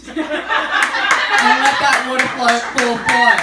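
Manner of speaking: drawn-out flow. Acted. Stand-up bit about peeing in a dress.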